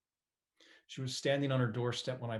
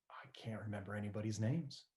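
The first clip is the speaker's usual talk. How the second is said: upset whisper; 6 dB quieter than usual. Retold or imitated. Mother upset about memory.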